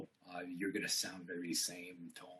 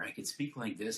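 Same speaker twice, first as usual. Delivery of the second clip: slumped, cramped voice; hunched voice. Shown as a demonstration. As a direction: speak with the chest closed in. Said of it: "my lung capacity is not as good".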